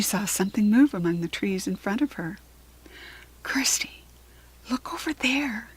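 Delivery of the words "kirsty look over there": hushed, breathy half-whisper, slightly raised. A narrator's reading. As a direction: whisper it to draw a friend's attention. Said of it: "she whispered".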